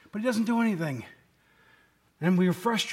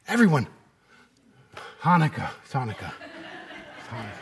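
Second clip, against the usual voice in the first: laughing; 8 semitones lower than usual. Real, not acted. Laughing at his own Hanukkah point.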